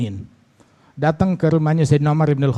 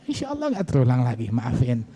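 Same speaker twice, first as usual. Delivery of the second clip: softer, hushed insya Allah nggak terulang lagi; quiet apology; 4 semitones lower, 6 dB quieter than usual. Shown as a demonstration. Husband quietly apologizing to wife, softly. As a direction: murmur the sorry so nobody hears. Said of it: "mumpung nggak ada yang dengar".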